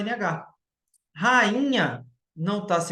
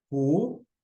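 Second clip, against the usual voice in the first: "Ruínas" in three isolated beats: ru, í, nas; syllable by syllable. Shown as a demonstration. Teacher repeating the example for students, "Ruínas" split into ru, í, nas. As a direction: split "Ruínas" at each syllable with long pauses. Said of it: "eu separo sa".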